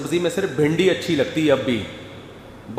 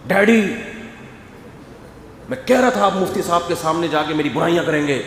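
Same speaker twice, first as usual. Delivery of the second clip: mock yelling son; 2 semitones higher than usual. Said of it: "اور بیٹا چیخ رہا ہوتا ہے".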